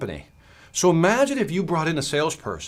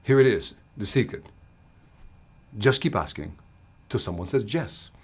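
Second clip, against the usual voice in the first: put-on Spanish accent; 5 semitones lower, 4 dB quieter than usual. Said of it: "He said".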